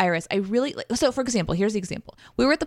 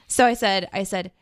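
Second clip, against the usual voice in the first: ordinary talk, nothing marked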